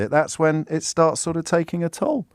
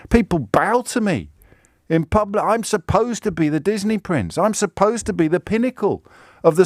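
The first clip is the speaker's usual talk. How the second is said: higher, pointed mock protest as Harry; raised mock indignation; 6 semitones higher than usual. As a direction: push it up like wounded pride. Voicing Harry's inner thoughts.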